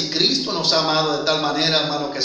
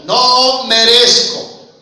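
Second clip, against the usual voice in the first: pleading confession; 4 semitones higher, 8 dB louder, much slower than usual. Acted. Prodigal son's plea voiced.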